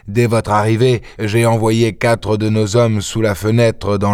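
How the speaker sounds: lightly voiced eager police inspector; a hint of the keen detective reporting; inspector Ganimard. Ganimard reports to his chief, lightly voiced.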